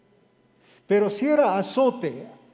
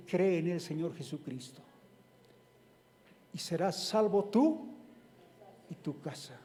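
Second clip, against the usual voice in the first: softer, gentle restatement; quiet repeat; 6 dB quieter than usual. Acted. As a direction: let it land softly. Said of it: "same verse repeated softly".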